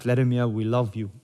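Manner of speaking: mock-adoring crowd in a half-hearted Russian accent; attempted Russian accent. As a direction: try a Russian accent, not very well. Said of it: "if that was the best accent".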